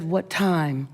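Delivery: regal. Retold or imitated. Regal woman asking the speaker from her Escalade, regal. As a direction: ask it low, with a hint of regal poise. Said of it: "she was regal".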